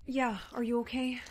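breathless whispered check. Acted. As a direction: whisper it so nobody hears. Hushed check after escape.

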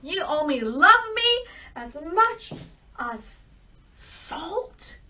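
loud, indignant royal scolding; angry king. Acted. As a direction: banish her in a huff. King angrily banishes his daughter.

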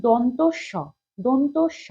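দন্ত স with tongue touching the teeth on দন্ত; dental pronunciation. Shown as a demonstration. Teacher models দন্ত স for pupils, carefully dental. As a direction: say দন্ত স carefully, drawing out the last syllable. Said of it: "দাঁতে লাগছে".

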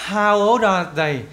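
put-on "How old are they" in one slow chain, "old" sliding into "are"; slow linked model, "old are" said as "ol-da"; linked words. Shown as a demonstration. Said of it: "Đọc nối chỗ này vào nhau".

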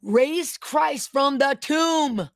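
slow, drawn-out prayer declaration; fervent prayer. Real, not acted. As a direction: pray it out phrase by phrase, stretching key words.

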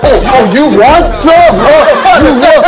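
squaring up in a fake American brawl; mock American tough guy. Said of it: "미국에서 이래".

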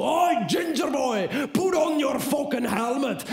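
mock guide shouting. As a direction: yell it right into his ear. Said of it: "hij schreeuwt in mijn oor zo".

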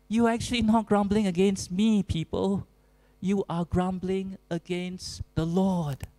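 a touch of desperate pleading; mildly voiced Moses appealing to the people. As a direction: plead with the people, then ease off. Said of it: "how desperate Moses is".

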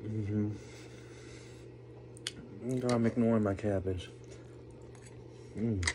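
talking through hot spicy food; mouthful of hot chili; mouth full of hot food. Real, not acted. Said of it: "my mouth is on fire".

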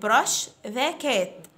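put-on very slow, clear drill phrase for children to repeat; slow model phrase. Shown as a demonstration. Teacher to fifth graders, model phrase very slowly. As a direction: stretch each word out for the class. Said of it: "Repeat after me".

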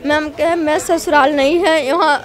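real crying through the words; weeping while recalling the hospital; telling the counsellor her ordeal, in tears. Real, not acted. Recounting miscarriage ordeal.

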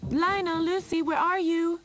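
high, loud searching call. A narrator's reading. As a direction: holler for missing children. Mother calls for her children.

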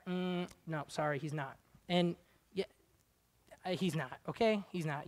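soft firm rebuttal. Real, not acted.

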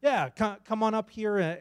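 ordinary delivery

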